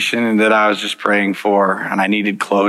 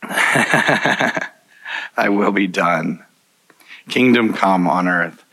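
very slow recitation; 4 semitones lower, much slower than usual. Acted. Reciting prayer slowly.

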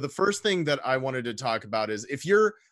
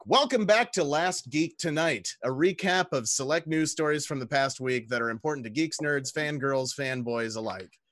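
a hammed-up seductive intro, slowed down; sultry narrator. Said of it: "read in the sultry tone of my voice".

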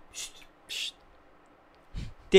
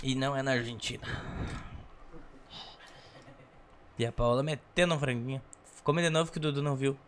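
mouth full; 7 semitones lower, 13 dB quieter than usual. Real, not acted. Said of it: "Tá com a boca cheia".

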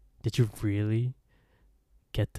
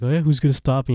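mock defiant taunt; 3 semitones higher, 9 dB louder, much faster than usual. Retold shoving match, defiant reply.

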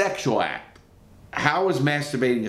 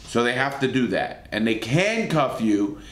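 usual speaking voice

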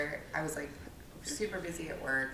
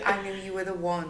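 mock vow in an Irish accent, laughing. Ending the joke vows for friends, Irish accent. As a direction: finish the vows with an Irish lilt. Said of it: "It's just a deep Irish accent".

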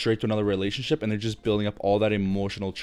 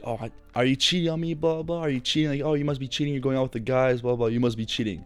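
put-on higher, whiny accusing girlfriend voice; whiny ex impression; 3 semitones higher than usual. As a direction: mimic the nagging ex, pitched up. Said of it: "my ex would be like".

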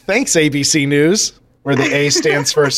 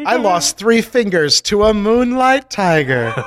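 slow, raised, dreamily romantic delivery; playful mock wonder; 5 semitones higher than usual. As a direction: draw it out as if it were lovely. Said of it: "when you say it like that".

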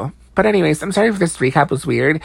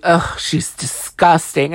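drawn-out disgusted quote; slow, mock-revolted groan of disapproval. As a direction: imitate someone repulsed, stretching the words out. Acting out a cast member's disgust.

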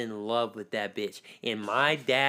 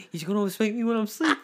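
laughing quote; 8 semitones higher, faster than usual. Retold or imitated. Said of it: "he said".

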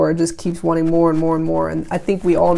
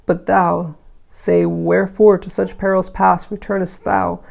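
put-on measured recitation of old verse; declaimed lightly, pausing between phrases; verse reading. A narrator's reading. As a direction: read the poem out with firm phrase openings. Reads the poem aloud.

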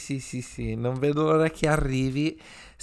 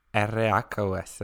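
spelling it out; 3 semitones lower, 5 dB quieter than usual. Shown as a demonstration. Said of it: "si scrive A con la".

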